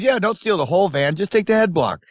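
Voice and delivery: high mock convict answer; inmate's reply. Convict answering his prison teacher, mock high voice. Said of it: "He goes".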